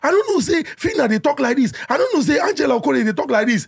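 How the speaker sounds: a hint of gossiping commenters; mocking gossip. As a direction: lightly mimic nosy commenters. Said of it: "Some people are like".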